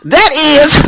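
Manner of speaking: high, outraged retelling; incredulous, shouted-out complaint; wrathful outburst. Retold or imitated. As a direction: act out furious disbelief, hammering the words. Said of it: "feel the wrath I had in me".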